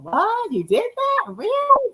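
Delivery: high-pitched incredulous questioning; mock surprise. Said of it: "you be sitting there going".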